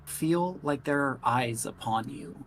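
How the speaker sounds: slow, measured narration; unhurried storyteller with deliberate pauses; game master's scene setting. A narrator's reading. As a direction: narrate slowly, letting the suspense hang.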